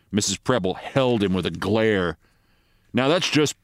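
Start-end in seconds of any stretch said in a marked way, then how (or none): 2.9-3.6 mildly annoyed retort; a touch of irritation, pushing back. Acted. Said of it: "considerably annoyed".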